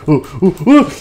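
high, loud oohs of losing balance; startled balancing whoops; wobbling oohs. Acted. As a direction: yelp as if about to topple. Character wobbling while balancing.

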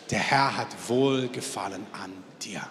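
a whispered blessing passed to the person beside you. Shown as a demonstration. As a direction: whisper it tenderly to your neighbour. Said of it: "sagt deiner Nebenperson".

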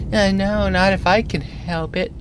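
small, high, timid inner voice; little high-pitched conscience; tiny voice of reason. Acted. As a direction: object meekly in a tiny high voice. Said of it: "the tiny voice is like".

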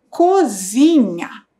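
Cozinha said slowly and settled, falling at the end; slow reading. Shown as a demonstration. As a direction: give the finished word Cozinha slowly.

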